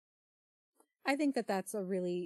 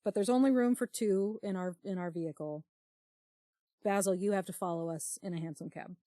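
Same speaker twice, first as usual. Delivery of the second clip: Henry line; 4 dB louder than usual. Acted. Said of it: "Henry says".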